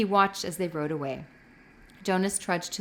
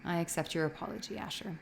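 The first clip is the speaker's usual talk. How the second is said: much softer, tired acceptance; wearily; 8 dB quieter than usual. A narrator's reading. Jonas wearily accepts Asher's apology, soft and tired. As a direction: give in because it's no use. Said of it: "he said wearily".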